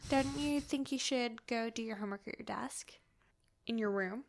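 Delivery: whispered, coaxing hint; hushed nudge. Retold or imitated. Mom and Ned hinting Davy should leave, whispering. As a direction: whisper it to shoo her away. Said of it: "they're like".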